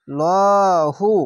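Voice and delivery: লহু with a thick dark ল, drawn out; heavy lam. Shown as a demonstration. Teacher showing the heavy lam in লহু. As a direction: say লহু heavy and full-mouthed. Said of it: "তাহলে মোটা করা হবে".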